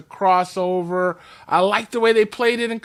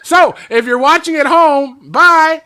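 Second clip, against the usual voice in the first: playful goodbye; 5 semitones higher, 7 dB louder than usual. Real, not acted. Host waves off TV viewers.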